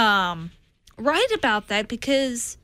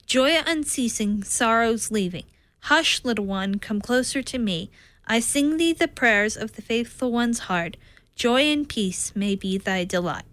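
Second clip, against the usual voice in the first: poem recital. Acted. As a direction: recite it gently, like a lullaby. Recites her lullaby poem.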